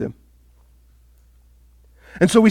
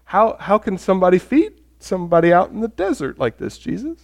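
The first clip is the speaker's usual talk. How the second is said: sheepish imitation; 4 dB quieter than usual. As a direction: ask tentatively, restarting and fading at the name. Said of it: "That's how they kinda say it".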